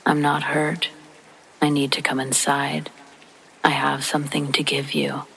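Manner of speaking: flat robotic monotone. Retold or imitated. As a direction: speak like a robot, no feeling. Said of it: "a cryptic, robotic reply".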